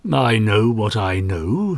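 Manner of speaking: slow, unbending reply; unflinching. Acted. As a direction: lay each word down, unmoved. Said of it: "he said unflinchingly".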